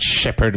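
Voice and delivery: "shepherd" with a strong SH; "shepherd" starting on a firm hushing sound. Shown as a demonstration. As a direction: push the SH that opens "shepherd". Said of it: "with a strong S H".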